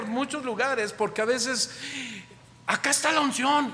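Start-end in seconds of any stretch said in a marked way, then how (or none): 2.7-3.7 much higher, hammed-up eager call; preacher mocking believers who chase revivals, hammed up; mock excitement. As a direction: ham up the crowd chasing the anointing. Mocking hype-chasing churchgoers.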